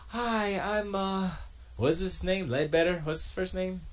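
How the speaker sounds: a hint of a British tech-video host; British accent impression. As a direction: put on a posh British presenter greeting. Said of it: "enough of the Briticisms".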